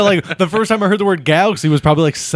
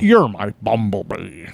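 romantic Optimus Prime; 5 semitones lower than usual. Pretend. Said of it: "Could you imagine Optimus Prime being romantic".

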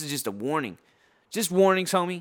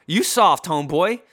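louder taunt; 2 semitones higher, 6 dB louder than usual. Real, not acted. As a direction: hit it harder the second time.

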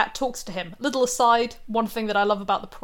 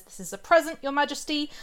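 lightly voiced higher, deferential presentation; courtly cat; 5 semitones higher than usual. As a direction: offer it up to a king. Cat presents gift to the king.

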